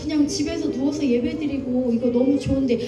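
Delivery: whining believer. Retold or imitated. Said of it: "하나님을 마음을 정말 너무 아프게 하고".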